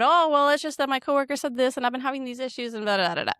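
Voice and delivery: venting. Retold or imitated. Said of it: "now I'm venting to him".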